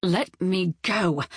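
mild frightened gasp; gasped plea. Acted. Grabbed by Blythe, Julia mildly gasping to be freed. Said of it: "she gasped".

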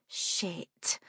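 breathless whispered swear; whispered curse. A narrator's reading. Daisy curses to herself in a whisper. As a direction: whisper it under your breath. Narrator's thought.

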